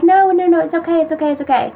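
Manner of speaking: high, hurried reassurance, softening at the end; retold reassurance. Girlfriend replying to apology, reassuringly. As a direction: imitate her waving the apology away.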